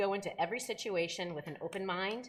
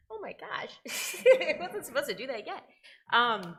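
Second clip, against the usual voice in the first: laughing through tears; choked-up laugh at herself; tearful laugh; 6 semitones higher, 8 dB louder than usual. Real, not acted. Mother starts crying, laughs at herself.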